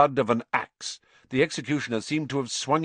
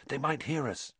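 whispering; 4 semitones higher, 7 dB quieter than usual. Acted. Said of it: "he whispered to Hermione".

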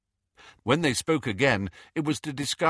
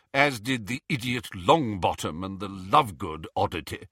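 contemptuous. Acted. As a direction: sneer at the children. Phineas contemptuous.

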